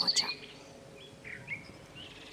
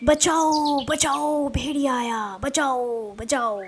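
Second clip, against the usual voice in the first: acted cry for help; 3 semitones higher, slower than usual. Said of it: "चरवाहे की आवाज़ सुनी".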